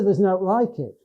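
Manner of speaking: broad Lake District chat; Cumbrian dialect. Shown as a demonstration. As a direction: talk like you're among Cumbrian mates. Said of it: "I use some words only in that kind of situation".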